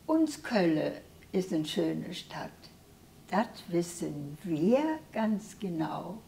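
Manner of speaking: measured Kölsch verse reading; simple spoken recital of a hometown poem; poem recitation. Real, not acted. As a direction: recite the dialect poem line by line, pausing after each. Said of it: "Magst du uns noch was vortragen".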